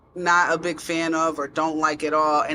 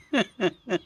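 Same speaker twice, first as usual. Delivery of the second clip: real laugh; 3 semitones higher than usual. Shown as a demonstration. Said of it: "like, really laugh".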